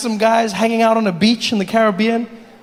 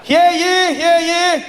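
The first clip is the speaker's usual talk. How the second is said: grand rich voice; 8 semitones higher, slower than usual. Acted. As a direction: announce it like a pompous town crier. British herald announces arrival.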